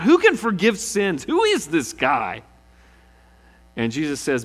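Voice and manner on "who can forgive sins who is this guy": high, outraged questions; Pharisees freaking out. Acted. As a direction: play the scandalised Pharisees. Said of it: "the Pharisees freak out".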